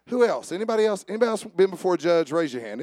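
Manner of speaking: high, loud call to the congregation; calling out to the room. Real, not acted. Preacher calling loud to the congregation for hands.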